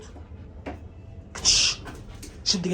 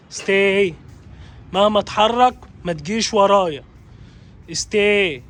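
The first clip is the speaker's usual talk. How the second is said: firm, louder stay command; firm dog command; 4 dB louder, slower than usual. Real, not acted. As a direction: order the dog to hold still, drawing out the command. (أمر حازم للكلبة بصوت عالي)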